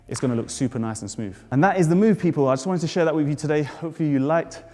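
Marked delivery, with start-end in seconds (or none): 1.5-4.6 breathless after jumping; out of breath. Real, not acted. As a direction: talk while catching your breath. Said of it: "I'm out of breath as always".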